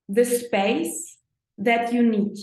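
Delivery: ordinary talk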